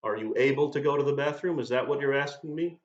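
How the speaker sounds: mildly sarcastic, pointed questioning; understated sarcasm, feigning puzzlement; mock sarcastic teacher. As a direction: play the stickler teacher, lightly sarcastic.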